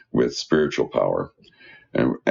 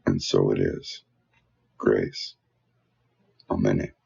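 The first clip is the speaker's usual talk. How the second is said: spoken prayer; 2 semitones lower than usual. Real, not acted. Leads the congregation in prayer.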